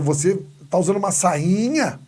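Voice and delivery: appalled boyfriend, hammed up lightly; mock shock. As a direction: stretch sainha in mock outrage. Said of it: "eu fico estarrecido, tenho um ataque de machismo".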